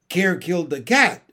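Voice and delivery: lightly voiced stern nanny snapping; snapped. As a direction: cut him off sharply. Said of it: "snapped Mary Poppins".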